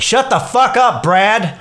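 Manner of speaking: high-pitched mock snap at an imagined voice; retold telling off. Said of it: "I told him off".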